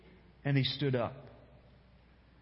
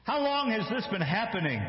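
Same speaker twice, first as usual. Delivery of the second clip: put-on higher, earnest asking of the boy; concerned question; 7 semitones higher than usual. Shown as a demonstration. Jesus asking the father, high and concerned. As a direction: ask it with worried concern. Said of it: "Or maybe Jesus says".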